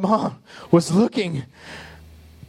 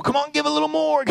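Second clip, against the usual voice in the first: higher, quick coaxing plea; a pastor nudging for more, lightly played; mock pastor coaxing; 6 semitones higher, faster than usual. Pastor to his people, lightly mock coaxing. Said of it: "I'm always trying to persuade people".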